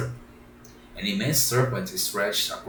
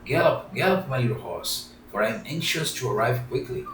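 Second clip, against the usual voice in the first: joyful cry; 3 semitones higher than usual. Acted. Pinocchio on the pigeon's back cries out, joyful. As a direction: spur the pigeon on gleefully. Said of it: "he exclaimed joyfully".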